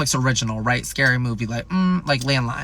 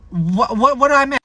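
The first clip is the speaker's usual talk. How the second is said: higher-pitched baffled reaction; retold bewilderment; 8 semitones higher than usual. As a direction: act out puzzled surprise. Reacts to eight missed calls.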